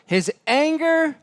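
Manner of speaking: "anger" lifted high and drawn out; stress on anger. Real, not acted. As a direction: lean hard on "anger".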